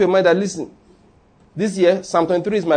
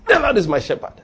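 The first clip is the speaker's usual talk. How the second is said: higher-pitched quarrelsome declaration; quarrelling; 5 semitones higher than usual. Shown as a demonstration. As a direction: argue it back at your pocket, pitched up. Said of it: "Quarrel if you like".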